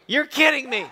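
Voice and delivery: mock-incredulous, laughing through it; laughing disbelief. Disbelief at broken heater news.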